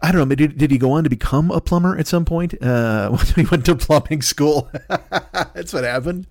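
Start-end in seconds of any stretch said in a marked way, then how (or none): 2.6-6.3 slow laughing through the words; cracking up at his own joke. Real, not acted.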